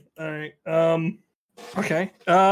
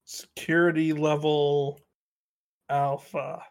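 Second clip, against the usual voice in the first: slow, lowered official announcement; self-important reply; 4 semitones lower, 3 dB quieter, much slower than usual. Acted. Player bluffing a patrol guard, slow and grave. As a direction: state it with weighty pauses.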